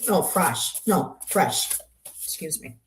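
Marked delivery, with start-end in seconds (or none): 0.2-0.8 "Frosh" as one syllable rhyming with gosh; self-corrected pronunciation. Real, not acted. Streamer retries guest's surname as "Frosh", self-corrected pronunciation. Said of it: "gotta learn how to pronounce her name properly". 1.3-1.8 "Fresh" with the vowel of the word fresh; self-corrected pronunciation. Real, not acted. Streamer settles guest's surname as "Fresh", self-corrected pronunciation. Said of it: "gotta learn how to pronounce her name properly".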